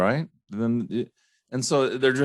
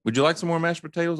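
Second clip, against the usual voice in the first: mock host offer; 8 semitones higher, much faster than usual. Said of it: "now if, if I'm fine".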